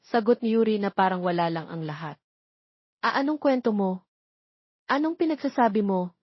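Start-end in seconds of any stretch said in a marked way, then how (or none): 3.0-6.2 startled question. A narrator's reading. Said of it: "nabibigla niyang tanong".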